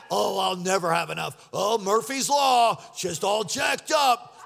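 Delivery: mock self-pitying moan; udawane narzekanie. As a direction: drag it out like a hammed-up complainer. Mimics people cursing themselves.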